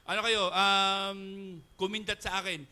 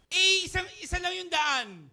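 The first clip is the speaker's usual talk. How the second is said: loud, slowing on the path; emphatic loud telling; 10 semitones higher, 10 dB louder than usual. Retold or imitated. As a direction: stress that there was one road. Loud emphatic story beat.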